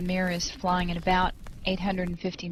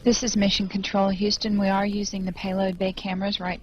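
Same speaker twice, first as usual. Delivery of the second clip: steady official commentary voice; calm, measured broadcast narration; mission control announcer. Acted. NASA commentary over the feed.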